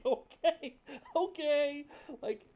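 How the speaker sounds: exasperated protest. Retold or imitated. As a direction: push back hard on being called angry. Retelling exasperated reply to parent.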